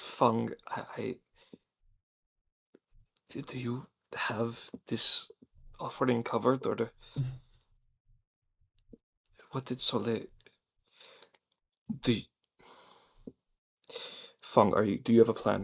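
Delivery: hushed whisper with words tripping and stumbling. Playing a character whispering into Fung's ear: whispering. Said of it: "try to whisper in Fung's ear".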